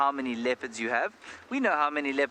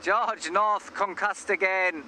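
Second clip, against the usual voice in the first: high, slow mock Welsh commentary; Welsh accent; 7 semitones higher, slower than usual. Presenter faking rugby commentary for fun, high hammed-up Welsh accent. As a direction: announce it high in put-on Welsh. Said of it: "a Welsh rugby side".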